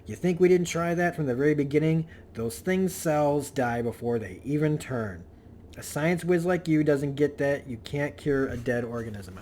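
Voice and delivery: retold exasperated snap; mild acted outburst, stressed and insistent; Peter. Man losing patience with kids hoping for a cure, exasperated. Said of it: "Peter finally snaps".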